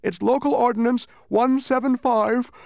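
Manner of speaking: a sleepy creature quoting local law at Milo; fussy tiny creature. A narrator's reading. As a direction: recite the ordinance number like a tiny clerk.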